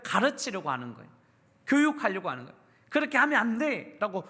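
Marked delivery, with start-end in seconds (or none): 2.9-4.3 a mock parental yell of 그렇게 하면 안 돼; mild mock yell; imitating a yelling parent. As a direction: play a scolding parent, mildly raised. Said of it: "소리치는 거예요".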